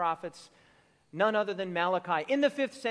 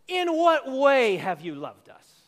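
louder, slow and disbelieving; incredulous retort; 6 dB louder, slower than usual. Retold or imitated. Preacher voicing the people's doubting reply to God, incredulous. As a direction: challenge the claim. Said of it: "look at their response".

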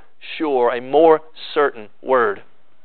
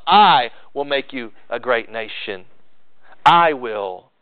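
"I" punched and drawn out, then a measured finish; stress on I; 4 semitones lower, slower than usual. Acted. Preacher repeating God's promise to show emphasis, stress on I. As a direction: land heavily on each "I", lower pitch. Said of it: "The emphasis there is on God himself".

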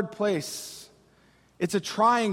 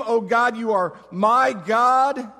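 bold truth claim; 4 dB louder, slower than usual. Acted. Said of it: "this truth claim".

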